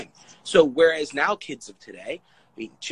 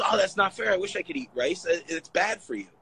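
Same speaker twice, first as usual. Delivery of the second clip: envious Italian guy; 6 semitones higher than usual. Retold or imitated. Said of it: "the Italian guy goes".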